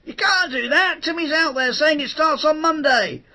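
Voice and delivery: high, loud alarmed protest; retold protest. Presenter protesting to the producer about the date, high and loud. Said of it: "Nick wanted to put the series start date back".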